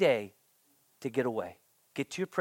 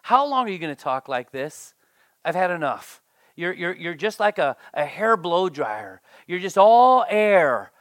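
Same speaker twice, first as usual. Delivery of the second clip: mock exasperated friend; 6 dB louder than usual. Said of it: "He says".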